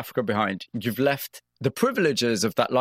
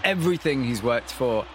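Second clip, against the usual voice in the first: measured, scripted presenter read over music; polished broadcast storytelling voice; radio documentary narration. Acted. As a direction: set up the story like a radio feature host.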